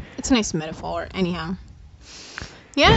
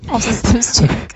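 slow robot voice; 6 dB louder, slower than usual. Pretend. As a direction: speak slowly like a robot. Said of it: "Have you become a robot?".

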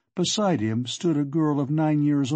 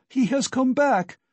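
high-pitched furious accusation; frantic wife demanding answers, voice raised; frenzied cry; 7 semitones higher, 3 dB louder than usual. A narrator's reading. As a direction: rail at him in a frenzy. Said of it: "she cried out in a frenzy".

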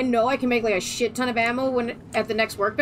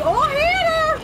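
put-on high sing-song Minnesotan accent; lightly hammed Minnesotan accent; 14 semitones higher, slower than usual. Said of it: "doing freaking Minnesotan accents".

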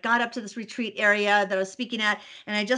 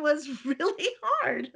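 laughing; 5 semitones higher, 4 dB quieter, slower than usual. Real, not acted. Laughs about camping on mountain.

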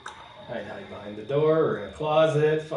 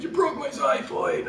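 much higher, slow pained whine; mock wounded whine; 14 semitones higher, 3 dB louder, slower than usual. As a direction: whine it like a hurt buddy. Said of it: "He's like".

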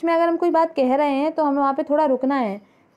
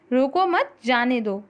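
मत pitched up, then a break before जाने दो; pause after मत; slower than usual. Shown as a demonstration. Teacher showing students how a pause changes meaning, pause after मत. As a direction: stop after रोको मत, then let जाने दो drop. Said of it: "अलग-अलग स्थानों पर एक रुकने के कारण".

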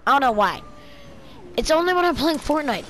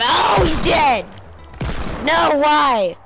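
shout; 3 semitones higher, slower than usual. Real, not acted. Gamer seeing a teammate die, dismayed shout. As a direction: drag out a shocked shout.

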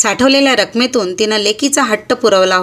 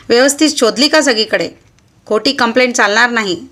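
scolding; 2 semitones higher than usual. Acted. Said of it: "त्यानं दरडावून सांगितलं".

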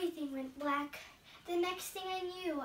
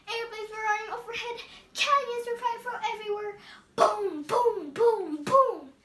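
fast and louder, building to booming blasts; mounting bombardment; 5 semitones higher, 8 dB louder than usual. Acted. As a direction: build into the explosions. Bombing scene, mounting booms.

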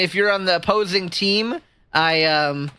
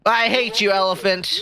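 higher, playful indignation; mock anger; 3 semitones higher than usual. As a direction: pretend to be offended. Mock quarrel with game's elephant.

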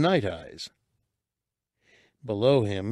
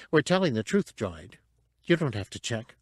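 small creature voice. Acted. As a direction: pitch it up for a tiny creature. Cabe to droid.

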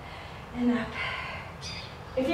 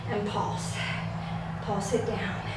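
straining through the burn; strained effort; 2 semitones lower, 11 dB quieter than usual. Real, not acted. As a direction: talk through burning legs. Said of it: "my legs are on fire".

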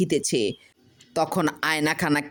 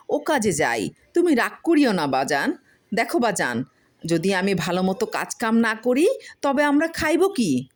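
coaxing son; 4 semitones higher than usual. Acted. Farmer talks to mirror.

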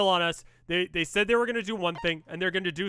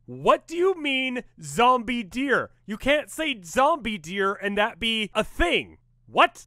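retold disbelief; 5 semitones higher, slower than usual.

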